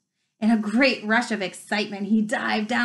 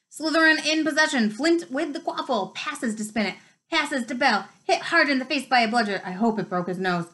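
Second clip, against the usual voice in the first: lively commentator call, pitched higher; match commentator; 3 semitones higher than usual. Acted. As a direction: announce it like a schoolboy commentator. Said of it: "Lee was still commenting".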